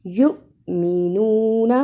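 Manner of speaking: یؤمنون with a clipped catch on the hamza; hamza with a jolt. Shown as a demonstration. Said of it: "حمزہ ... جھٹکا لگا کر پڑھتے ہیں". (یؤمنون میں ہمزہ کو جھٹکا)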